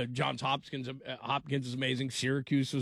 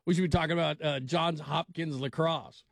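lightly voiced caller taking over, slowing on "Johns Hopkins lacrosse"; imitating the caller. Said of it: "see, this is how it's done".

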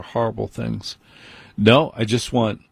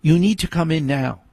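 higher, flat firm daughter calling him in; teen daughter's order; 6 semitones higher than usual. Retold or imitated. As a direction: mimic the daughter's insistence. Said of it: "autistic daughter will come out and go".

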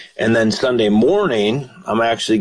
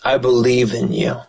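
earnest prayer. Acted. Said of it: "cry out and say".

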